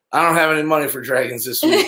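laughing quote. Retold or imitated. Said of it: "she said".

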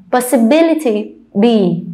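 "Possibility" with the third syllable stressed, then "be" alone; possi-BI-lity, then echo "be" by itself. Shown as a demonstration. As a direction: model "Possibility", isolating stressed "be". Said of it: "see where's the stretch".

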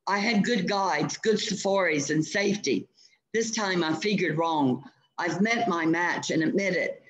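a hunter who has lost his nerve; frightened. Acted. Eccles admits defeat in fear.

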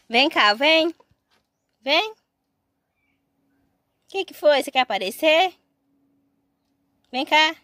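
high, loud call to the sheep; calling an animal. Real, not acted. (chamando a ovelha, alto e agudo)

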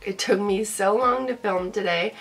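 stuffy nose from a cold; blocked-nose nasal voice. Real, not acted. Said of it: "Sorry I sound really nasally".

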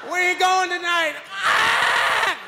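mock the eager cousin shouting; mimicking cousin.

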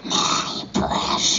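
whispered Gollum hiss; creepy whispered Gollum. Pretend. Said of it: "Let's have your best golem".

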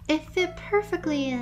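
bright amazed reply; delighted surprise. Real, not acted. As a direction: sound thrilled it fits. Amazed, higher pitch.

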